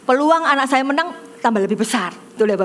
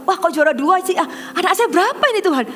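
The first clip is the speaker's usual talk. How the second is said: high, quickening acted disbelief; baffled surprise; 6 semitones higher than usual. Mother asks God about her child's ranking, baffled. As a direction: re-enact a worried plea, pitch climbing. Anxious mother hears rival named runner-up.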